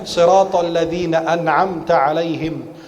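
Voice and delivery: slow, measured siratal ladzina an'amta 'alaihim; drawn-out Qur'an teaching recital; model recitation. Shown as a demonstration. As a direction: recite "an'amta 'alaihim" carefully with clear ain. Models the verse slowly.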